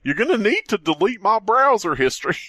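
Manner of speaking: high dramatic dying Goofy; overacted death scene. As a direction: ham up dying last words. Continuing death voice.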